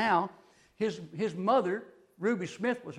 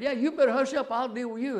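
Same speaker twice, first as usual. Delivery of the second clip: angry shout; 4 semitones higher than usual. Retold or imitated. Man in the back pew threatens the preacher, shouting.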